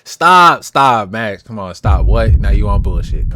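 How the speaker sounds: loud, half-amused protest; real exasperated outcry. Real, not acted. Viewer reacting to Max's clip, loudly exasperated. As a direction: burst out, begging him to quit.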